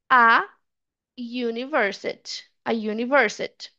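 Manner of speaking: "a university" with unlinked "a", then a Y glide; a before "yoo". Shown as a demonstration. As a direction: say "university" after "a" as "yoo-niversity". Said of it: "eu vou falar".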